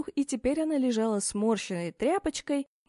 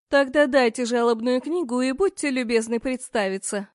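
indignant demand; 6 dB louder than usual. Acted. Demanding the complaints book.

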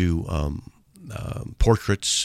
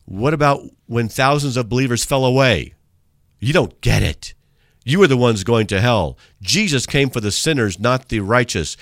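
louder hammed-up ranting email writer; mock angry rant; 3 semitones higher, 5 dB louder than usual. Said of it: "he's yelling it".

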